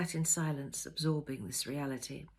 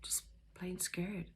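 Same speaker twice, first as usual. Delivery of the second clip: much softer, slow and whispered; barely audible; 8 dB quieter, slower than usual. A narrator's reading. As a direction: whisper it to yourself. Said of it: "almost soundlessly said".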